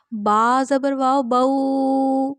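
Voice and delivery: بو dragged out far too long; over-stretched pronunciation. Shown as a demonstration. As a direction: hold the vowel in بو much too long, the wrong way. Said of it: "زیادہ لمبا کرنا".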